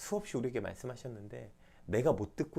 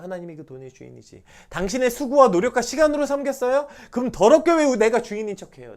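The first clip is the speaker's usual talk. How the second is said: loud, high rebuking sermon lines; preaching at full force; 9 semitones higher, 14 dB louder than usual. Acted. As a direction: hammer the question at them. (힘차게 꾸짖는 설교)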